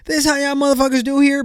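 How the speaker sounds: high, fast mock Texan twang; Texan drawl imitation. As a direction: ham up a Texas good-ol'-boy accent. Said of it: "talking like this".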